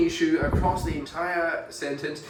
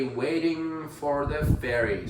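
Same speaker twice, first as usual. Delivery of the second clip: Waiting for the ferry in an American accent, R sounded in for; slow American take with a rhotic for; rough American accent; slower than usual. Shown as a demonstration. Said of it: "American English where you would actually pronounce that".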